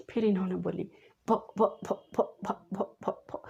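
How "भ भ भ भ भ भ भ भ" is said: soft, broken stuttering on one sound; imitated stammer. Frightened girl trying to answer the teacher, imitated stammering. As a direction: imitate a child stuck on the first sound, barely voiced. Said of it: "पूरा तुतला रही थी".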